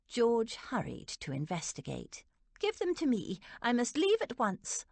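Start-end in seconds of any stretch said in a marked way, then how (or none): 2.6-4.9 put-on high-pitched, agitated older aunt; worked-up and insistent; agitated protest. A narrator's reading. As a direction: protest urgently, pitched well up. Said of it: "an increasingly agitated Aunt Dotty".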